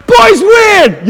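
high, drawn-out triumphant yell; gloating victory shout. Retold or imitated. Boyfriend gloating over downed girlfriend, hammed-up shouting. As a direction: crow it at full volume.

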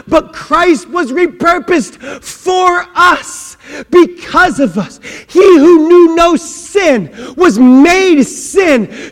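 slow, loud, crying-out preacher; full-force preaching. Acted. Preacher crying out to the congregation, loud and slow. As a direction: pour it out from the pulpit.

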